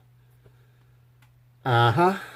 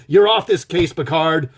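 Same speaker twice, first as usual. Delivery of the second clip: cop movie captain; 2 semitones higher, 5 dB louder than usual. Retold or imitated. Reviewer plays an eighties captain firing Picard, hammed-up.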